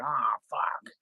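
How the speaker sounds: under-the-breath whispered swear; whispered curse. Retold or imitated. Streamer finding cat hair on cards, whispered curse. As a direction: hiss it to yourself in frustration. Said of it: "I was like".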